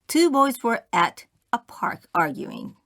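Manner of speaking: normal talking voice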